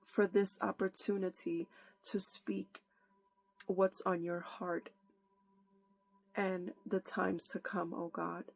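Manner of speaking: earnest prayer. Acted. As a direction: pray aloud, humbly, to God before the sermon. Opens with a prayer.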